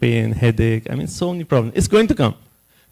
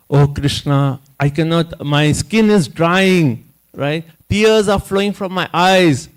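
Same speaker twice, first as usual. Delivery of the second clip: Arjuna's breakdown; 3 semitones higher, 3 dB louder, slower than usual. Retold or imitated. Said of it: "He has such an emotional breakdown".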